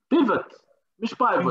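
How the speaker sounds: بيفوت said with a short i, not بايفوت with ai; correct pronunciation. Shown as a demonstration. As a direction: contrast بيفوت against بايفوت clearly. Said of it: "نشوف كيف بيفوت ولا بايفوت". (نطق بيفوت لا بايفوت)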